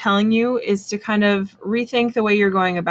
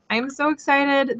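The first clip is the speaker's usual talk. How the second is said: higher, gushing excitement; excited; 6 semitones higher, 3 dB quieter than usual. Real, not acted. Streamer repeats the webcam news to viewers, gushing higher. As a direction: let the joy lift it up.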